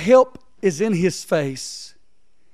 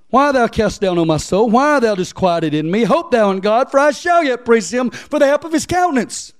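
raised, loud Bible reading; preacher reading verse five; scripture reading; 5 semitones higher, 4 dB louder than usual. Acted. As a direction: proclaim the psalm verse. Reads verse five aloud.

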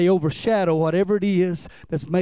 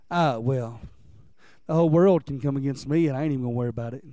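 lower, fast and dismissive; cocky; 8 semitones lower, faster than usual. Retold or imitated. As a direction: toss it off like an arrogant braggart. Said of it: "this guy's a little cocky or arrogant".

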